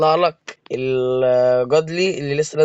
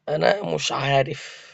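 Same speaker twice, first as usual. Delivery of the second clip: drawn-out, softer "أنا مش عارف"; slow stunned disbelief; 4 dB quieter, much slower than usual. Real, not acted. Gamer stunned by a rival's huge score, slow and soft. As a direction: let the words sag in awe.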